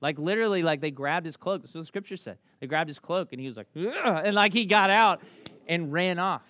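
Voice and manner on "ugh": startled struggling grunt. Retold or imitated. Disciple wriggling out of cloak.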